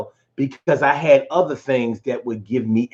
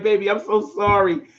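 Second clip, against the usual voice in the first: imitating mom; 6 semitones higher than usual. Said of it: "she was like".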